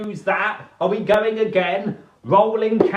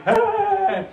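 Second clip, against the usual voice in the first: mock laughing yelp; 14 semitones higher than usual. Dorothy laughing at fart.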